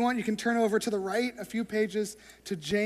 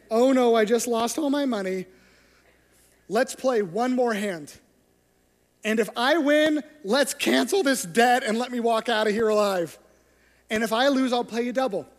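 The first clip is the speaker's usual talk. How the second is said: desperate gambler; 6 dB louder than usual. Retold or imitated. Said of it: "is you say".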